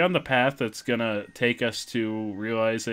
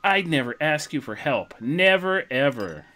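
put-on high kid koopa, reluctantly pleading; Bowser Junior; 4 semitones higher than usual. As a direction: ask for help in a raised child character voice. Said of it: "This is the voice of Bi-, of Bowser Junior".

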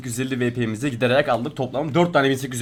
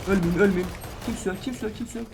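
soft, tense whisper to self; hushed; 4 semitones higher, 6 dB quieter than usual. Real, not acted. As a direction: hold your breath and murmur. Hiding, whispering to himself.

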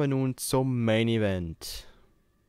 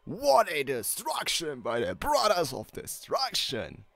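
wrestling commentator; 5 semitones higher, slower than usual. Acted. Commentary clip.

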